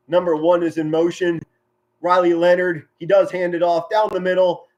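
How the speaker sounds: brisk football call, easing off after the play; sportscaster narrating the down; live play-by-play. Real, not acted. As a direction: call the handoff as it happens.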